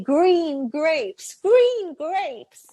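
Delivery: put-on clear, careful "Green grapes" for a child; model pronunciation. Shown as a demonstration. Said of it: "You say".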